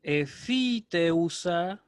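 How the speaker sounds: "Efiteusa" drawn out slowly, syllable by syllable; wrong form. Shown as a demonstration. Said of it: "perdón, porque está en tercera persona". ("Efiteusa" lento, sílaba por sílaba, forma equivocada)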